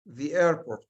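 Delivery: slow, word-by-word example; spaced-out plain sentence; slow dictation. Shown as a demonstration. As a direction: read each word apart. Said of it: "This is an ordinary sentence".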